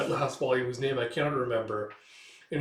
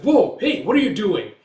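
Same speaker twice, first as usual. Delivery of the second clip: high, loud protest; alarmed shout; 8 semitones higher, 9 dB louder than usual. Retold or imitated. Crewmate to Coin heading out, alarmed shout. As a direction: act out stopping a reckless comrade.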